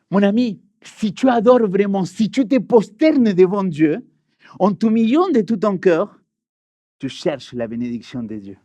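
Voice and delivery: earnest preaching paraphrase. Acted. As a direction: address the congregation with conviction. Paraphrases the texts.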